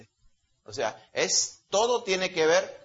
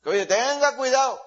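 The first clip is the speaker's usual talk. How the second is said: stern warning; 10 semitones higher, 5 dB louder than usual. Real, not acted. Preacher warning the congregation.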